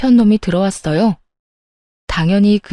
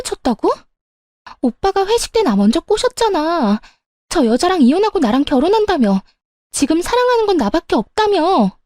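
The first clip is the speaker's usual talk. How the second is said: put-on much higher, protesting girlfriend voice; indignant mistress; 7 semitones higher than usual. Mistress confronting lover who blames her, indignant. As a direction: protest his betrayal in a high-pitched voice.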